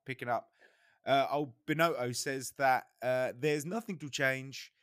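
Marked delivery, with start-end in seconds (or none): 1.0-2.9 put-on Italian accent. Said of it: "my terrible Italian accent". 3.0-4.7 slow, hammed-up Italian accent imitating the team boss; mock Italian manager voice; badly faked Italian accent, drawn out; terrible Italian accent. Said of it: "It's just my terrible Italian accent".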